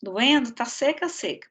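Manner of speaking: speaking with a dry mouth; dry throat, needs water. Real, not acted. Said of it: "Tô com a boca seca aqui".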